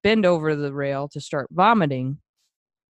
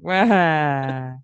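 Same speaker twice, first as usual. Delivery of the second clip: fake toddler crying. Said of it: "a two-year-old kid faking crying".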